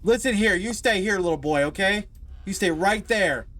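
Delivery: hammed-up stern telling off; mock scolding. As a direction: scold him like a stern parent. Scolding the little boy.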